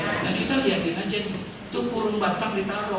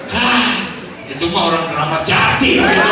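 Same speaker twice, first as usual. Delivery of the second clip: louder, a laughing outburst; mock astonished exclamation; 7 dB louder than usual. Preacher reacts to the widower's story, loud astonished outburst. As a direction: blurt it out in amazement.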